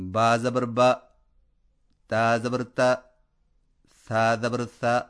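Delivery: با زبر با with a short, crisp fatha, no stretching; teacher demonstrating fatha on با، تا، ثا; model fatha reading. Shown as a demonstration. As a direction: read با، تا، ثا clearly with a short open fatha. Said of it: "جیسے".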